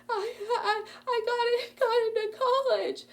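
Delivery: student telling the guard the college news, laughing through tears. Retold or imitated. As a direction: get the words out through happy sobs. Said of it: "I am weeping".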